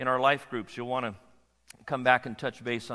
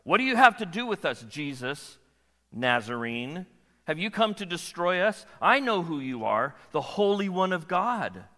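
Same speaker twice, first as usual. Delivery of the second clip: demon crying out; 2 semitones higher, 4 dB louder than usual. Acted. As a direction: cry out like a cornered demon. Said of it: "the unclean spirit in the man cries out".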